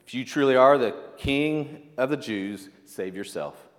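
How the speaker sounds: mocking taunt. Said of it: "And it says".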